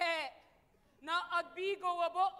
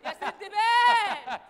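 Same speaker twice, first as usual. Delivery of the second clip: calling out; 6 dB louder than usual. Acted. Calling out to Sindbad.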